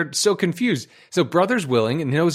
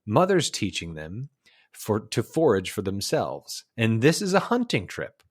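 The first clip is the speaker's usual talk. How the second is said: measured documentary storyteller; nature film narration; 3 semitones lower than usual. Acted. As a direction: narrate it like an old wildlife film. Recites the film's narration.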